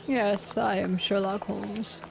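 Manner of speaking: low, measured detective voice; Sherlock Holmes. Acted. Playing Sherlock Holmes after the game.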